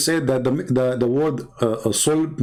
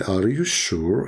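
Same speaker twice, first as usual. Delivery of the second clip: slow, drawn-out doubting question; needling question; 5 semitones lower, slower than usual. Retold or imitated. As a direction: stretch it out to needle the opponent. Retold needling question, repeated.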